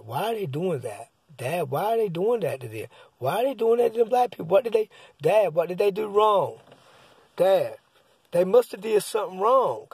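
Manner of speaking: a son pressing his dad for an answer; upset kid. Retold or imitated. Son quizzing dad during Roots.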